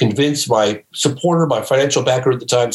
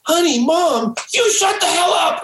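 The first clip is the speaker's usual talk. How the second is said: much higher, a light mock scold; daughter scolding. Daughter tells her mother to shut up, lightly voiced. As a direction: snap at mom in a put-on daughter voice.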